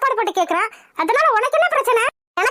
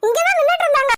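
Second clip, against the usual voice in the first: higher-pitched, insistent objection; indignant protest; 4 semitones higher than usual. Acted. Witness insists to the girl's father, indignant. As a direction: protest that you are telling the truth.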